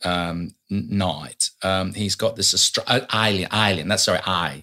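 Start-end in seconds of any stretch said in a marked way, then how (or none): 0.7-1.5 "night" with an eye vowel in place of A; "night" said with a long I where an A belongs. Shown as a demonstration. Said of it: "Anything that's A, he says, "I". 3.1-3.9 "alien" begun with an eye sound; "alien" with long I replacing the A. Shown as a demonstration. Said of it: "He says A is an I".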